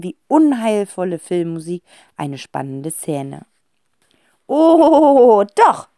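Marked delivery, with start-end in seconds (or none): 4.5-5.9 higher teasing wife voice, rising on "doch"; louder and high, playfully insistent. A narrator's reading. Wife teasing her husband with the phone, playful. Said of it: "sagt Frau Wohlleben".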